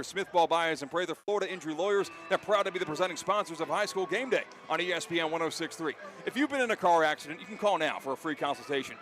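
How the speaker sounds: brisk sponsor read, partly over music; radio ad read, rattled off fast. Acted. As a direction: sell the law firm quickly and cleanly. Live sponsor read mid-broadcast.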